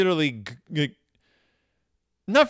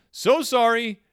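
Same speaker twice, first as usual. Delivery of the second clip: patronizing; 4 semitones higher, slower than usual. Retold or imitated. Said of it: "which is so patronizing".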